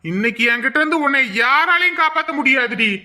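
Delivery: rising shouted threat; villain threat. Acted. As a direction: bellow the threat at her. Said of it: "என் பேரு லிங்கம் இல்லடி". (கத்தி மிரட்டும் villain)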